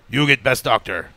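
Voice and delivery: put-on slow, lightly Russian-accented English; a hint of Russian accent, deliberate. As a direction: lightly imitate a Russian hospital worker. Voices Russian hospital staff.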